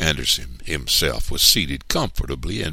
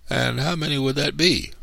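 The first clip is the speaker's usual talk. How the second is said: high-pitched pointed question; persistent questioning; 12 semitones higher than usual. A narrator's reading. Mama persists in questioning Mister Anderson, high and pointed. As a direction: press him, voice lifted high. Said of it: "Mama persisted".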